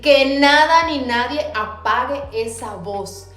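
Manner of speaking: defiant retort. Retold or imitated. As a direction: shut the voice down with conviction. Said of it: "Y dije".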